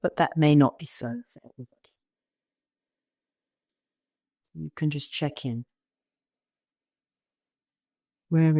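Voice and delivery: calm meditation guiding with long pauses; spacious, unhurried instructions, phrase by phrase; guided meditation. Real, not acted. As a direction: guide them gently into the body.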